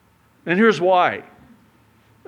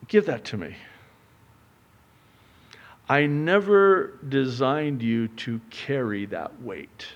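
tender voice of God; 2 semitones lower than usual. Acted. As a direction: gently lift the weight off.

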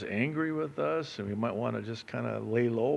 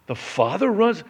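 loud, high, fervent preaching; preaching at full force; 8 semitones higher, 7 dB louder than usual. Acted. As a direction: preach it out, building to a cry.

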